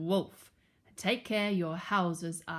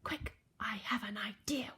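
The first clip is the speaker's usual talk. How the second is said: urgent stage whisper; 8 dB quieter than usual. A narrator's reading. Percy shares a plan with his brothers, whispering. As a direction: whisper it secretly to the others. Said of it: "whispered Percy".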